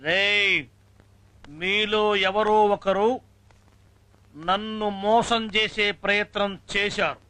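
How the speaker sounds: slow, drawn-out schoolmaster warning; stern threat. Acted. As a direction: stretch each phrase as a menace to the class. Teacher threatens class to confess. (నెమ్మదిగా సాగదీస్తూ బెదిరింపు)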